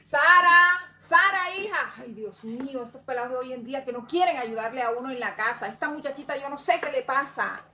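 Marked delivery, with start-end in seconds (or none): 0.0-1.9 loud call across the house; calling the daughter from another room, loud. Acted. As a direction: call her name, loud then fading. Mother calls daughter from afar.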